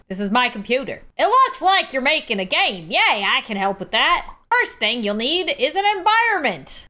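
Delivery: sweet but cutting computer helper; chirpy assistant. Acted. Computer assistant offering help, mildly insulting the developer.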